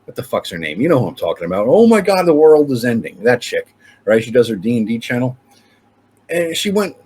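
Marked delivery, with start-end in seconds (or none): 1.7-3.2 mock-dramatic, higher and louder on "Oh my God"; hammed-up panic of a doom-and-gloom streamer; mocking doom YouTuber. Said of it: "like that Scottish chick".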